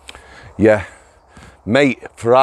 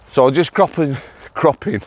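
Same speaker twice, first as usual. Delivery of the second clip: laughing. Real, not acted. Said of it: "Let me calm myself down".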